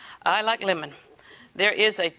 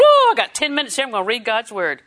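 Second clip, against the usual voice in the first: bright, louder burst of eagerness; eager; 6 dB louder than usual. Pretend. Preacher acting out eager Bible reader, excited. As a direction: sound thrilled to read the Word. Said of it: "I'm supposed to be that excited".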